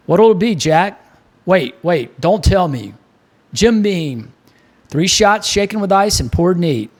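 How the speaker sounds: lightly voiced Baltimore barman; hearty bartender, a hint of Baltimore; bartender Mick. Mick takes the order.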